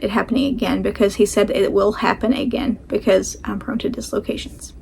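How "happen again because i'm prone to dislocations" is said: whispered. Real, not acted. Dreading another dislocation.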